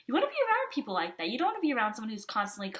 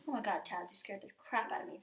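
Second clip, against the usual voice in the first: startled; 6 dB quieter than usual. Real, not acted. Startled by her cat Taz.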